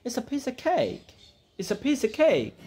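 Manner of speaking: "piece of" blended into "pisa", with the "of" cut to a schwa; schwa sound demo. Shown as a demonstration. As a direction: say "It's a piece of cake" with a weak schwa for "of". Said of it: "আমরা বলবো কি?". (শোয়া সাউন্ডে "piece of" উচ্চারণ)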